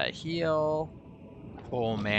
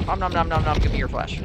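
nom nom chomping; 5 semitones higher, 8 dB louder than usual. Pretend. Eating catfish in game.

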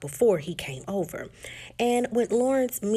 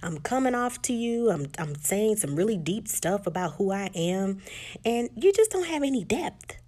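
mildly frustrated retold complaint. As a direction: air a grievance, lifting into exasperation at the end. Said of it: "Molly gets frustrated and says".

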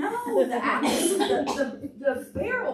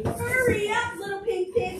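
higher, calling mother pig; 7 semitones higher than usual. Acted. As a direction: call the piglet home. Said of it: "said Little Pig, Pig's mother".

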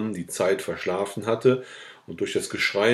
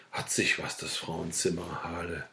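low, soft mutter to oneself; muttered grumbling; 3 semitones lower, 8 dB quieter than usual. A narrator's reading. Sick man alone muttering about the woman, quietly disgruntled. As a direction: grumble under your breath, trailing away.

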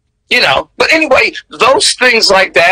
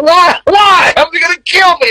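high, panicky retold kid's plea, much higher; scared child pleading; 12 semitones higher than usual. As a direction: replay the frightened kid begging not to go. Child pleading, afraid of Klan.

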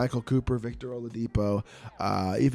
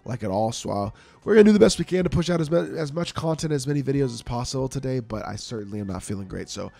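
congested head-cold voice; blocked nose; 5 dB louder than usual. Real, not acted. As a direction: talk through a stuffed-up nose. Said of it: "can hear in my voice, um, the congestion".

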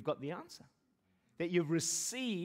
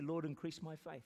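quiet prayer; 7 dB quieter than usual. Retold or imitated. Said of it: "I've started to say".

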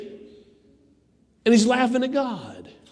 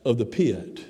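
God's judgment; 6 semitones lower, slower than usual. Acted. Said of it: "And God says".

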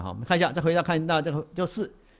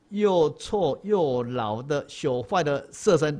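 Dongshan's earnest reply. Retold or imitated. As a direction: press each word home to the old master. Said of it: "这个洞山师怎么回答？".

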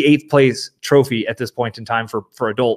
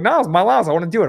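put-on higher, whiny twelve-year-old plea; pleading kid self; 6 semitones higher, much faster than usual. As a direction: beg like a kid who wants his allowance spent. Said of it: "And I was like".

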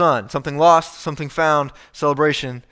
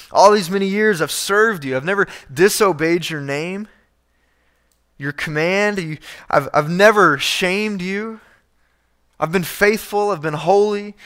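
raised pitch, indignant protest of a dutiful son; whiny, wounded self-righteousness; self-righteous son; 4 semitones higher than usual. Retold or imitated. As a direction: list your virtues like you've been cheated. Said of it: "you hear the self-righteousness".

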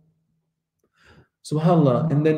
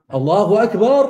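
raised, higher takbir exclamation; imitated takbir; 5 semitones higher, 4 dB louder than usual. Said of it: "they would just start doing takbir".

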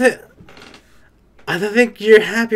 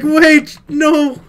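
higher, louder panicked yelp; imitating a panicked man crying out; 6 semitones higher, 4 dB louder than usual. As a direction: yelp it like he's being grabbed. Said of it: "He's like".

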